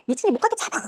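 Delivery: contained high cry of pursuit; retold scream. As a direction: imitate girls yelling after someone, held back in volume. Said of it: "소리를 지르는 거예요".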